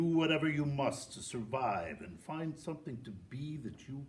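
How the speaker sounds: loud, raw and swaggering, with bursts; an exuberant rocker cheering on a young fan; rock star letter voice. Acted. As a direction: bellow the blessings like a rough rock star. Performs a rock singer's letter.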